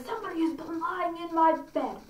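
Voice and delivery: a touch of indignation as the huge bear. Acted. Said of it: "our big, great, huge bear".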